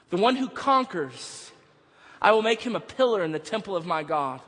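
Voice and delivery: measured, declarative Bible reading; scripture reading. Real, not acted. Preacher reading Jesus's words to the church, solemn proclamation.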